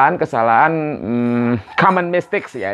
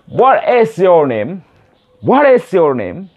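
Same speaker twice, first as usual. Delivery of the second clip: slow WHAT IS YOUR NAME, pitched up; slow careful version; 4 semitones higher, 3 dB louder, slower than usual. Shown as a demonstration. English teacher drills beginners on the question, slowly and clearly. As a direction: stretch each word out for learners. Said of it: "kalau secara cepat nanti akan dibilang".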